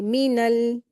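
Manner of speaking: "मीनल" measured, the n run into a held l; joined recitation. Shown as a demonstration. Teacher modelling noon joined to laam, measured recitation. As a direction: recite "मीनल" evenly and rest on the l. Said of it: "नून को लाम में मिलाकर पढ़ेंगे".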